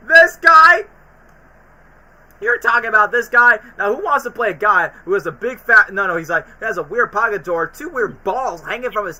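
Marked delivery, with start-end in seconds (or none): 0.1-3.6 loud, high incredulous yell; mock outraged shout. Foghorn Leghorn yelling at Daffy, mock outraged shout. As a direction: bellow it like a put-out rooster.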